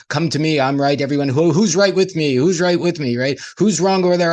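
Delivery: hammed-up self-righteous crowd call; mock preacher rallying. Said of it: "I like how Campbell said that and say".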